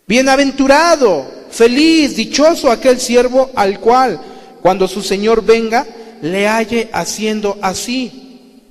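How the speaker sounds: loud, high preaching proclamation; fervent preaching. Acted. Preacher proclaiming a blessing to the congregation, fervent and loud. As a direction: proclaim it from the pulpit at full force.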